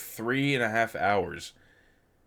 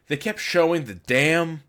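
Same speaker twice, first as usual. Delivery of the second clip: ordinary talk, nothing marked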